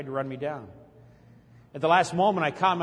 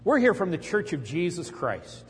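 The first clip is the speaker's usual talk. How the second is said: mock missionary greeting; slower than usual. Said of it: "and they'll go".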